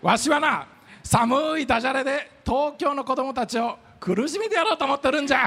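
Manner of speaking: put-on gleeful villainous old professor; creaky wise old man. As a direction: threaten them with a cackling grin. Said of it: "わしはブラック星博士じゃ".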